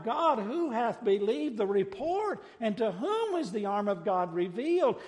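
impassioned preacher's rendering of a prophet's cry. Acted. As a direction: call out to God from the pulpit. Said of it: "Isaiah cried out".

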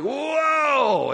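high, loud cry of wonder; amazed shout. Retold or imitated. Crowd at the temple reacting to the big gift: amazed shout. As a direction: let the crowd gasp it out loud.

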